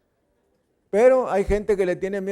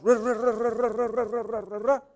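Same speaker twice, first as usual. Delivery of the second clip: rapid-fire "ra-ra-ra" babble, higher pitched; mock barrage of words; 4 semitones higher than usual. Preacher mimicking a squadron of words, mock babble. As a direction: imitate a rattling volley of words. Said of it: "te manden un escuadrón de palabras".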